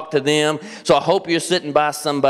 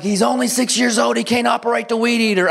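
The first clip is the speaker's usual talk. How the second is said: mock wife; 7 semitones higher than usual. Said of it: "My wife's like".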